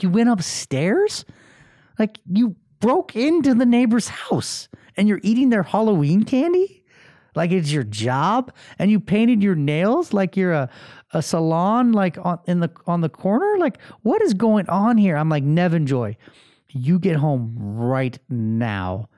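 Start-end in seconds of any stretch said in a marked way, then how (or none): 0.0-15.2 high, indignant rant; re-enacted parental outrage, pitched up; incredulous dad. 15.4-19.1 lightly stern dad, drawn out; measured parental command. Retold or imitated. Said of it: "my dad voice".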